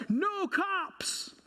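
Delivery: high squeaky panicked yell; teen yelling. Retold or imitated. Teen driver yelling at the man he hit, high panicked. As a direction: shout it like a scared sixteen-year-old. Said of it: "looks at me and yells".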